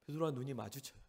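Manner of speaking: ordinary talk, nothing marked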